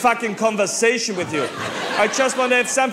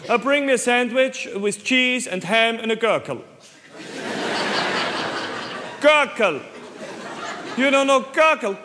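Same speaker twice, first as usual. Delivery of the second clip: put-on Austrian-accented English. Tourist orders Gurkerl in English.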